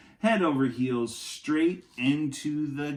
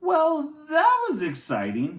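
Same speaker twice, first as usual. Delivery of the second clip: excited; 4 dB louder than usual. A narrator's reading. Character quote after adventure.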